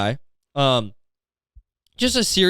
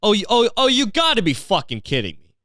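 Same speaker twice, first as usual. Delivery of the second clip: exasperated outburst; 8 semitones higher than usual. Retold or imitated. Alone in his car, shocked at the man asleep in a garbage can, exclaiming in disbelief. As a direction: blurt it out in stunned disbelief. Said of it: "audibly just went".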